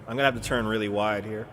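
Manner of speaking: a hint of a southern accent; lightly southern-accented talk. Real, not acted. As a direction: let a little southern accent slip out. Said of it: "there's my southern accent coming out".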